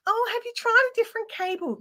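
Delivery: high, sing-song customer service voice; mocking the Telstra support line in a bright voice; mock support agent. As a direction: parody a chirpy help desk script. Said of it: "they're like".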